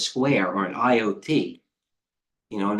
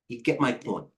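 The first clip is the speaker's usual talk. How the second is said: breathless after talking fast; out of breath; 8 dB quieter than usual. Real, not acted. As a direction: speak short of breath. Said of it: "I'm out of breath".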